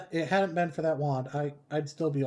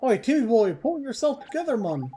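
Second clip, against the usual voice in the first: much higher, louder cheeky call to the cat; brash fairy scolding; 8 semitones higher, 4 dB louder than usual. Acted. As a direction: snap at the cat like a pushy little sidekick.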